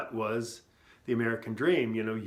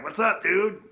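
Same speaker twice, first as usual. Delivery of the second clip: excited greeting; 8 semitones higher, 7 dB louder than usual. Retold or imitated. Greeting excited returning customer.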